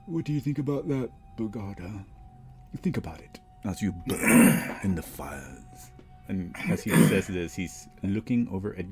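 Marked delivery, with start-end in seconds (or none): 0.1-5.9 put-on old hag. GM voices mocking devil.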